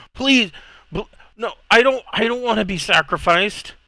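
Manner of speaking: mock frightened child, stammering, very high, panicked pleading. Voicing a kid who panics on hearing he'll be a servant, panicked pleading. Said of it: "he starts to panic".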